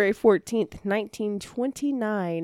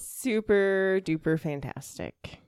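forced cheer; 4 dB quieter, slower than usual. Pretend. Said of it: "Did I pull that off okay?".

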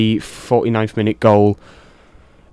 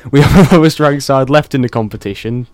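laughing through the repeat, louder; 4 dB louder than usual. Real, not acted.

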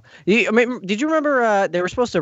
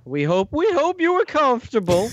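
Bill Cosby impression; 5 semitones higher than usual. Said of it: "Now it's just Bill Cosby again".

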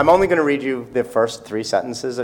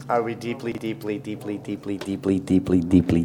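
trailing off softer and lower, ending in a whisper; mock disappointment fading to a whisper; teasing the audience, softer with each deeply; fading mock dismay; 5 semitones lower, 8 dB quieter than usual. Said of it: "No pressure".

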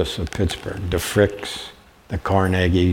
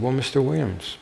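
a touch higher, sweet and polite, quick on the middle; very nice voice; 4 semitones higher, 3 dB quieter than usual. Retold or imitated. Student sweetly tells her teacher she already has somebody, nice voice. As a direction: play the polite student gently correcting him. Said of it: "in a very nice voice".

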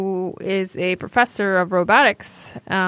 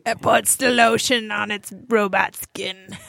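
creepy quote; slower than usual. Retold or imitated. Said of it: "He said that".

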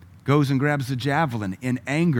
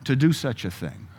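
stern parent; 3 semitones higher than usual. Retold or imitated. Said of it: "Even Baptist parents used to say that".

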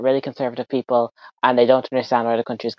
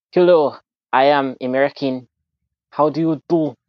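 stilted mock American accent; bad American accent. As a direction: do a deliberately bad American hello. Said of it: "it's a really good American accent".

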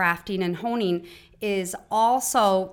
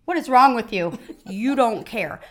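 louder, imitating exasperated daughters; mock protest; 2 semitones higher, 6 dB louder than usual. Daughters complaining to their calm mother, mock loud protest. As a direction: toss it back like a frustrated teen.

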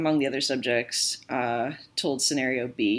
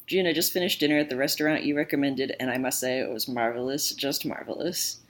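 sarcastic. Acted. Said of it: "thought Mark's message was sarcastic".

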